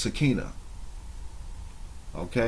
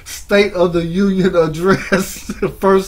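laughing mockery; 6 semitones higher, 7 dB louder than usual. Real, not acted. Mocking rival's loud speech.

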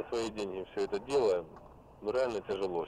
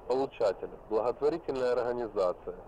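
dictating. Real, not acted. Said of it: "Повторяю ещё раз".

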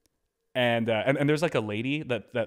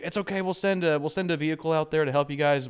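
folksy host; 5 semitones higher, 3 dB louder than usual. Retold or imitated. Host reassuring on phone.

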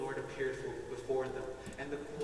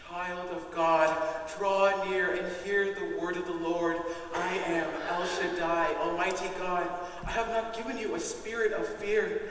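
booming divine voice; 4 semitones higher, 7 dB louder than usual. Acted. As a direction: thunder it out as the voice of God. God's voice declares himself.

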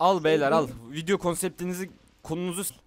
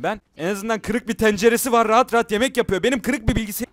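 higher and louder, venting frustration; exasperated rant; 6 semitones higher, 10 dB louder than usual. Real, not acted. Streamer complaining to chat about his broken PC, loud exasperated rant. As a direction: rant it out, at wits' end.

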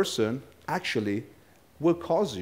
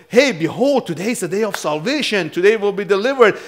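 high, loud herald of good news; loud, high-pitched preacher's announcement; jubilant proclamation; 7 semitones higher, 6 dB louder than usual. Acted. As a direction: proclaim deliverance with big rising emphasis. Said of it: "His message was".

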